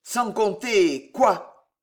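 slow, grumbled question; old man's wary growl. Acted. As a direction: growl it suspiciously. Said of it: "gronda le vieillard".

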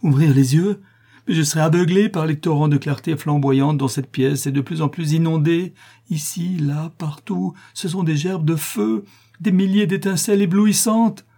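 high, frantic, anguished outcry; crying out. A narrator's reading. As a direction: cry out as if blinded by the glare. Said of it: "s'écria le notaire".

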